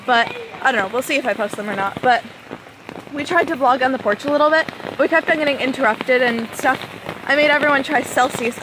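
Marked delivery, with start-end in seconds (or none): 3.1-8.6 raised voice over pouring rain; yelling over rain. Real, not acted. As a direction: shout to be heard through the downpour. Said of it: "I'm literally yelling over the rain".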